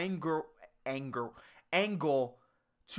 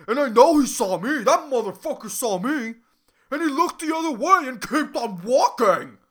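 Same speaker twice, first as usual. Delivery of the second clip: loud mock-indignant rant; worked up, angry; 7 dB louder than usual. Angry student venting to her mom, imitated as a worked-up rant. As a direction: imitate an angry woman's heated complaint. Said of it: "she's just worked up and angry".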